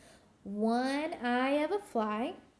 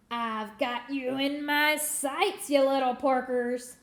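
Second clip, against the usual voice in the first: cackling witch; 3 dB louder than usual. Acted. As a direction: cackle down at the pigs. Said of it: "she cackled".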